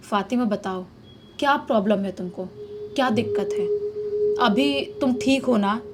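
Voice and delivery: husband gently coaxing his wife to tell him what is wrong. Retold or imitated. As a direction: ask her kindly, slowing down at the end. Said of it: "प्यार से अच्छे समझाते हुए पूछते हैं".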